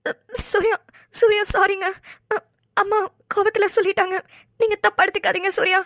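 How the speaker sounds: sobbing out his name between sorries; crying apology. Acted. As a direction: plead through tears, voice cracking. Sai apologising while crying. (அழுதுகொண்டே மன்னிப்பு கேட்பது)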